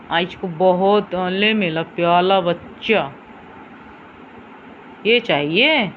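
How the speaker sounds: lisping sweet talk to a pet. Real, not acted. Owner cooing baby talk to her dog Alex, lisping and sweet.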